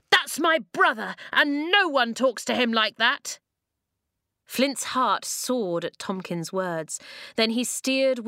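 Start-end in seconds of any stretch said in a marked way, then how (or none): 0.1-3.4 high, indignant shout; protective yell. A narrator's reading. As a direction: shout up in defence of a brother. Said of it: "he yelled".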